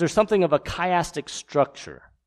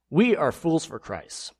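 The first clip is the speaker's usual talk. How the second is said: slow, dripping with irony; sarcastic reading; 3 semitones higher than usual. Shown as a demonstration. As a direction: read it as biting sarcasm. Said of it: "Let me read it in that way".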